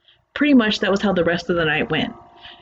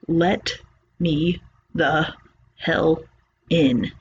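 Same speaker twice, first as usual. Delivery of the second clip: creature voice; 2 semitones lower, much slower than usual. Retold or imitated. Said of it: "And it just keeps saying".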